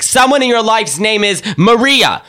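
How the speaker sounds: high, slow mock medium pronouncement. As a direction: announce it like a TV psychic. Medium mimicked.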